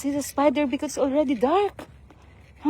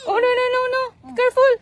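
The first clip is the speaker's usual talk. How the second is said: urgent warning; 8 semitones higher, much faster than usual. Real, not acted. Warning child.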